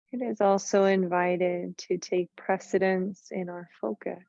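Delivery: measured meditation voice with long pauses; guided meditation. Real, not acted. Yoga teacher settling the class into heart-focused rest, guided meditation voice. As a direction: guide them inward, unhurried and even.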